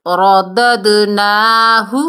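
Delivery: رددناہ with a full ر and an echoed د; qalqalah on dal. Shown as a demonstration. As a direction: bounce the د in رددناہ. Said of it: "بغیر کھینچے". (رددناہ میں د قلقلہ)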